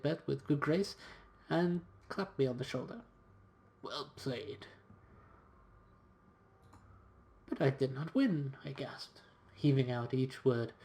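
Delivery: expressive, measured storytelling read; story narration. A narrator's reading. Valet telling of his master's wager in Copenhagen, story narration. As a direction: narrate it like an adventure journal. Reads game's story aloud.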